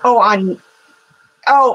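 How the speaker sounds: normal talking voice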